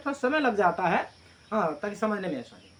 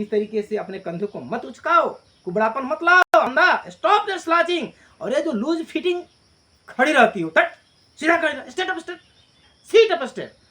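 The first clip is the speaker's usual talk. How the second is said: loud, higher scolding; mother threatening her daughter; 4 semitones higher, 5 dB louder than usual. Acted. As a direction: bark orders at the slouching daughter. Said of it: "तो माँ उसे धमकी दे रही है".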